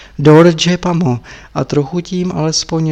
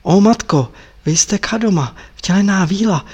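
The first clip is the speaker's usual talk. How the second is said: rapturous whisper; 3 semitones higher than usual. Acted. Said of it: "šeptal Tepaga radostí unesen".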